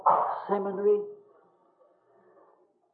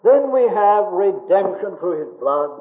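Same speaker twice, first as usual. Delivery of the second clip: fervent preaching; 5 dB louder than usual. Acted. Preacher exults over the blood.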